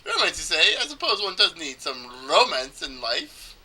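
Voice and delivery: lightly attempted Italian accent; bad Italian accent. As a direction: muse aloud with a half-managed Italian accent. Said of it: "supposed to do an Italian accent".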